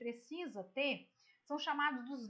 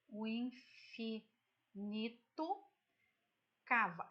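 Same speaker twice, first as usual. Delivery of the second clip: scanning the verse; 2 semitones lower than usual. Shown as a demonstration. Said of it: "quando a gente fala é mais ou menos assim".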